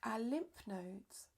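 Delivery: calm yoga nidra guidance with long pauses; unhurried, measured relaxation-teacher voice; guided meditation. Real, not acted. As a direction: guide them gently inward, leaving space between phrases.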